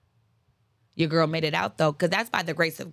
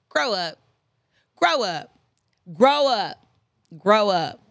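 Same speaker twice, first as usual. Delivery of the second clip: from plain to louder, firmer; building scold; 4 dB louder, slower than usual. Real, not acted. Scolding people who blame others, louder each time.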